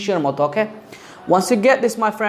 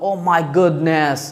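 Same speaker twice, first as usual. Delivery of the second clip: mock amazement; much slower than usual. Shown as a demonstration. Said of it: "আপনি অবাক হয়ে গেলেন".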